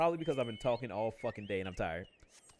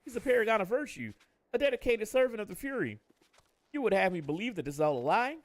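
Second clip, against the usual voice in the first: indignant NPC read. Acted. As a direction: scoff at the accusation, lightly acted.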